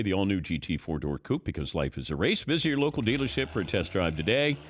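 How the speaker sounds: a steady, polished sponsor read. Acted. Host reading the Mercedes sponsor spot to listeners, smooth ad read.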